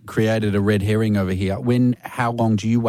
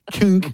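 mouthguard click noise; 8 semitones higher than usual. Pretend. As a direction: mouth click sound effect. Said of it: "Pop that out. Tip it".

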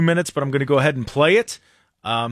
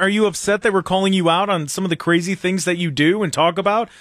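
mocking lean-in; 4 semitones higher than usual. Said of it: "he does, like, a lean, like".

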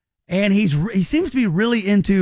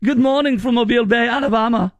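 higher-pitched, hammed-up German accent; mock German accent; 5 semitones higher, 3 dB louder than usual. Host reading a German visitor's post, mock German accent. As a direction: imitate a German tourist, pitched up. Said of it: "you should say in a German accent".

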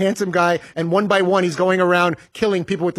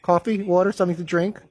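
repetitive flight attendant. Retold or imitated. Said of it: "The things that they have to repeat five thousand times".

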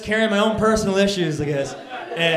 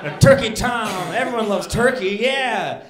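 pleased discovery; 5 semitones higher, 7 dB louder than usual. Retold or imitated. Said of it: "and I'm like".

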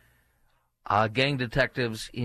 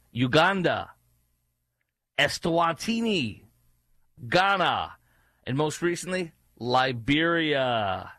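relishing announcement; 3 semitones higher, slower than usual. Real, not acted. Relishes list of deportation countries.

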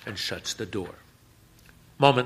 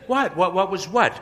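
feigned innocence; 10 semitones higher, 5 dB louder than usual. Acted. Toby playing innocent.

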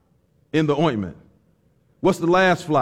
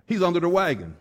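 laughing punchline; 4 dB quieter than usual. Real, not acted. Punchline of the joke.

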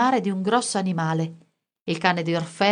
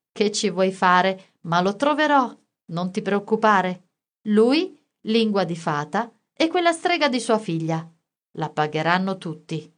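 menacing thug. Acted. Basta threatening the boy with a knife, lightly menacing.

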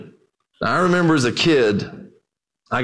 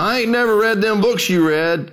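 put-on old preacher; 6 semitones higher than usual. Old preacher voiced in story.

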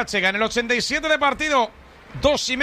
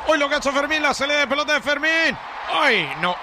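excited shout; 2 semitones higher than usual. Real, not acted. Sudden play in commentary.

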